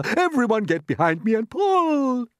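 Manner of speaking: high, loud rallying call; rally everyone to pull; loud order. Acted. Grasshopper rallying the others to pull.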